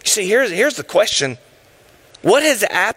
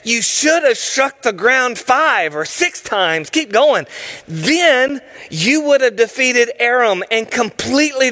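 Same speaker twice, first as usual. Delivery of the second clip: angry prophet; 6 semitones higher than usual. Acted. Angry prophet scolding the king for striking only three times. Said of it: "was angry with him".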